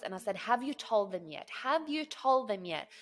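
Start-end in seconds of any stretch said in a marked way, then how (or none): 0.4-1.5 urgent demand. Retold or imitated. Urgent demand in retold phone call. 1.6-2.9 high, loud, insistent retold question; urgent demand. Buyer asks agent about the other party, urgently insistent.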